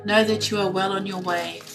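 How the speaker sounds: reading a card's message to a viewer, calm and measured; card reading aloud. Acted. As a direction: read the message like a gentle guided passage.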